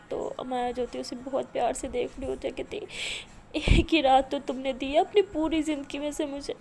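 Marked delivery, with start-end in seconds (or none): 3.5-6.5 higher, louder tearful protest; crying lament. Acted. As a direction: speak through tears, refusing to sleep. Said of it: "تو ایسے بول کے رو رہی ہوتی ہے". (روتے ہوئے شکوہ)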